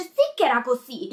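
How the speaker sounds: mock imitation of a petulant prince; lightly voiced bratty princeling; Joff. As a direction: insist like a contradicting child, lightly hammed-up. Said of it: "imitazione accuratissima".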